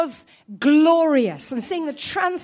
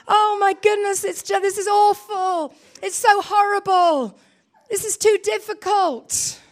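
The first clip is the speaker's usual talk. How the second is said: higher, louder, wailing oh my goodness; mock despairing wail; 4 semitones higher, 5 dB louder than usual. Crushed believer voiced by preacher, hammed-up despairing wail.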